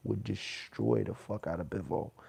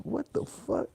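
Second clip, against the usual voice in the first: high whispered what-the; whispered disbelief; 12 semitones higher, slower than usual. Retold or imitated. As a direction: breathe it out in disbelief. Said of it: "I was like".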